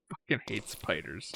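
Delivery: quiet laugh under the words; laughing through it. Real, not acted. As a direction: chuckle while you say it.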